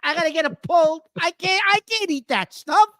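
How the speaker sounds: talking through a swollen mouth; words slurred by a swollen cheek. Real, not acted. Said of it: "The left side of my mouth is swollen".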